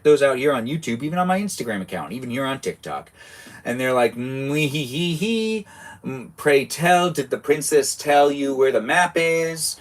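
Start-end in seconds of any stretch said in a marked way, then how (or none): 4.2-9.8 cackling witch. Acted. Streamer voicing witch in game.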